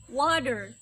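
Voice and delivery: "water" with a quick D-like flap, wadder. Shown as a demonstration. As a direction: tap the T in "water". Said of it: "Once more".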